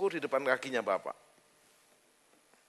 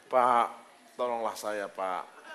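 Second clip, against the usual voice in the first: mock pleading; 8 semitones lower, much slower than usual. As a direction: beg the man for help, trailing off. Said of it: "Gimana perasaan Bapak?".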